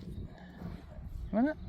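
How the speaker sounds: slow breathy whisper to a dog. Real, not acted. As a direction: whisper it slowly and gently. Offering dog more water.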